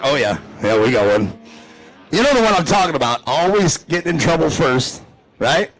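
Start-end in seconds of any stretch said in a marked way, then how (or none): 0.0-1.3 low-pitched put-on drinking buddy; Boomhauer. Buddy confirming his group has one, low impression. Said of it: "Yeah, he's like".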